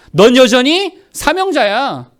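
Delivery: high, emphatic reassurance in a preacher's voice; Jesus. Acted. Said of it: "예수님 뭐라고 말씀해 주셨죠".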